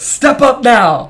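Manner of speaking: very slow, high, loud proclamation; dramatic reveal. Retold or imitated. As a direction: unveil it like a grand punchline. Reveals the table signs dramatically.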